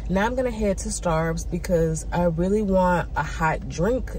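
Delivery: stuffy, nasally voice; talking with a blocked nose; congested. Real, not acted. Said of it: "I sound a little bit congested".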